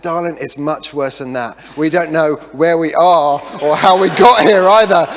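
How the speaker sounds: loud, rising wail of hopelessness; comic despair. Retold or imitated. Husband admitting to his wife that they're lost, hammed-up loud wail. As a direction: blurt the bad news in a hammed-up wail. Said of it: "I said".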